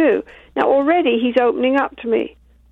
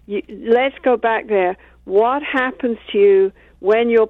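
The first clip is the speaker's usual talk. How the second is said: slowed, soothing therapist voice; gentle, slow reassurance; soft and slow; slower than usual. Retold or imitated. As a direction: ease him in slowly and soothingly. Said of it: "I do it in a soft, slow voice".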